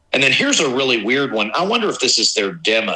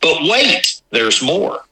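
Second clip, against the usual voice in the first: excited TV pitchman rising; infomercial; 7 semitones higher, much slower than usual. Pretend. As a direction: sell it like a late-night ad. Infomercial catchphrase.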